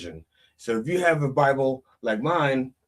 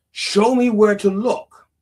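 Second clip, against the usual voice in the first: pleading for a sign; 10 semitones higher, 8 dB louder, slower than usual. Acted. Man begging God for sign.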